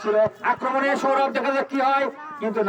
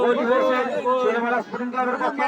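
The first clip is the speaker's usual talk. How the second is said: excited goal call; 6 semitones higher than usual. Real, not acted. Commentator announces the goal.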